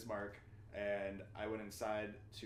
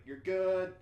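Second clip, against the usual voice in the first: high, loud call over the intercom; raised, projected intercom voice; 9 semitones higher, 10 dB louder than usual. Retold or imitated. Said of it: "guy over the intercom is like".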